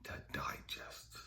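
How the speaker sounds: very soft and low, with long pauses; almost whisper it, phrase by phrase; slow, grave refrain; hushed pronouncement. Retold or imitated. Repeats God's saying as hushed refrain.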